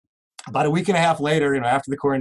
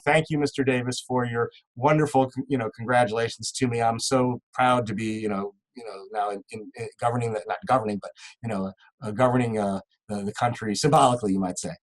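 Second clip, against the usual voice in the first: lower, softer, lightly regal voice; the Queen's letter; 4 semitones lower, 4 dB quieter than usual. Retold or imitated. The Queen thanks the prisoner for his letter, lower and softer. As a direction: read the letter as a low, gracious hint of the Queen.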